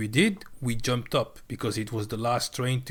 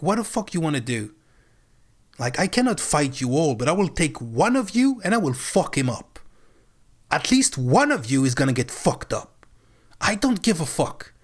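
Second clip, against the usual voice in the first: raised, heated retold threat; mock angry threat; 3 semitones higher, 3 dB louder than usual. Threatening the ticket controllers, heated mock threat. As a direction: replay the threat with a hot edge. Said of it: "raise their voice".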